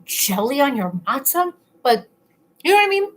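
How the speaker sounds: talking with a full mouth. Real, not acted. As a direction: speak through a mouthful of food. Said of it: "talking with my mouth full".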